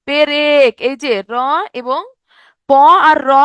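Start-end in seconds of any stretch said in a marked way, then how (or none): 0.1-0.7 পেরেক drawn out in two syllables; inserted vowel. Shown as a demonstration. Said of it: "মাঝখানে একটা এ ধ্বনি আসছে".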